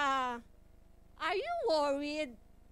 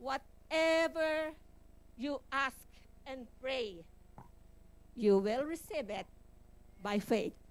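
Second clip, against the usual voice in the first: reading scripture; slower than usual. Shown as a demonstration. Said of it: "to say to you".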